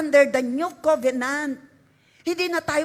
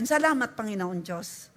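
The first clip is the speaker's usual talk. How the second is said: soft reverent prayer; 3 semitones lower than usual. Shown as a demonstration. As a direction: lower and softer, reverent naming of God. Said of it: "Sabihin natin". (mahinang mapitagang pagtawag sa Diyos)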